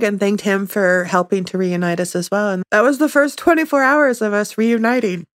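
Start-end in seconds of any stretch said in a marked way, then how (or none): 2.5-5.3 crying through the words; snotty crying. Real, not acted. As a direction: voice thick with real tears. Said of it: "sorry, I'm ugly crying".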